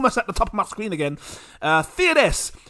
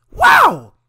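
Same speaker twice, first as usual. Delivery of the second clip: excited wow; 11 semitones higher, 10 dB louder than usual. Real, not acted. End of long Patreon list.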